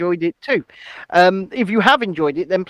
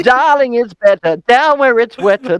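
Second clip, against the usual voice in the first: high, slow seductive mermaid voice; sultry sea creature; 7 semitones higher, 4 dB louder, slower than usual. Pretend. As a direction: purr it like a diva under the sea.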